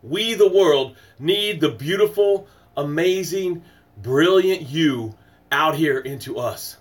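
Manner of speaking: slow, soaring inspirational address; rousing motivational opener; motivational speech. Acted. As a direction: preach it like a life coach opening the show.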